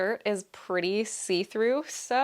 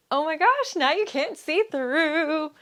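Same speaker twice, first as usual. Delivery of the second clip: delighted surprise; 7 semitones higher, 4 dB louder than usual. Real, not acted. Delighted trying on bloomers.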